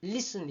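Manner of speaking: listen stressed on LIS; stress on first syllable. Shown as a demonstration. Teacher showing dictionary stress, LIS-ten. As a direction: put the weight at the front of listen. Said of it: "앞쪽에 강세를 들어와서".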